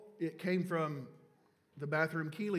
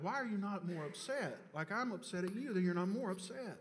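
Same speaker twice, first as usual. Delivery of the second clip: nagging; 5 semitones higher than usual. Retold or imitated. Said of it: "I just kept nagging her".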